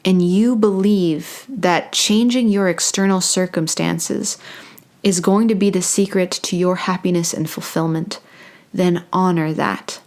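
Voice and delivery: measured delivery with long pauses; channeled spiritual message. Acted. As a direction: speak as if receiving each phrase, unhurried.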